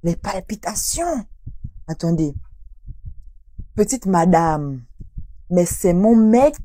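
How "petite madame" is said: 1 imagined tone. Retold or imitated. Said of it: "j'imagine un peu le ton".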